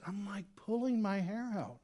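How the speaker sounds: preacher voicing an exasperated Jesus at his disciples. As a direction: throw up your hands at these twelve. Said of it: "if I'm Jesus".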